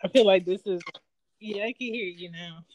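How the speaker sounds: cutting-in-and-out call audio; bluetooth headset mic. Real, not acted. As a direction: voice over a dropping connection. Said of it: "it's still going in and out".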